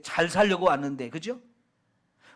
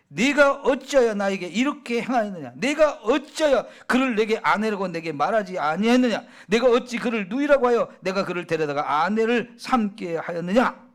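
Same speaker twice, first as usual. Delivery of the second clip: mildly raised, demanding reading of Pharaoh's rebuke; pressing accusation; 3 dB louder than usual. Acted. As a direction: press him with question after question, a touch louder. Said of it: "막 계속 다그치면서 따지는 거죠".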